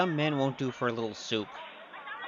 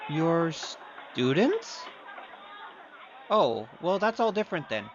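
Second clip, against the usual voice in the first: drawn-out, higher mock astonishment; mock surprise; 4 semitones higher, slower than usual. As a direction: act amazed to tease her. Mocks the princess's students claim.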